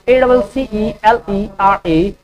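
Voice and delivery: slow letter-by-letter dictation; slow spelling dictation; spelling out slowly. Shown as a demonstration. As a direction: spell each letter clearly for students. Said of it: "spelling क्या होगा?".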